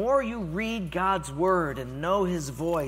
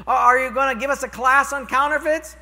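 louder, higher pleading question; insistent trainee; 9 semitones higher, 9 dB louder than usual. Retold or imitated. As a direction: push the question hard. Trainee asks again, louder.

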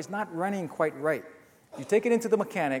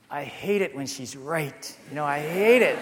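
rueful admission. Real, not acted. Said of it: "admits wife was right".

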